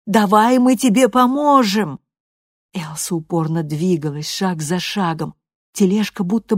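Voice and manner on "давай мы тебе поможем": calling out. A narrator's reading. Family calling after Elsa.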